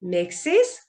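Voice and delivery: "mixes" as "mek-sis", rising at the end; smooth es ending. Shown as a demonstration. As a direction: say "mixes" with a light -is syllable. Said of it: "부드러운 거예요".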